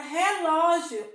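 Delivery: "relógio" with the "ló" pushed out; stressed middle syllable. Shown as a demonstration. Teacher showing pupils the accented syllable, stress on "ló". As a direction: lean firmly on "ló" in "relógio". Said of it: "acento agudo também no ló".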